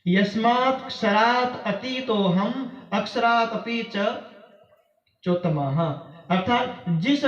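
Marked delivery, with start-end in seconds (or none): 0.0-5.8 slow Sanskrit verse in measured phrases; shloka recitation. Acted. Preacher cites one more shloka, measured recitation. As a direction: recite with lengthened syllables and pauses. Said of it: "एक श्लोक और मैं बता दूं".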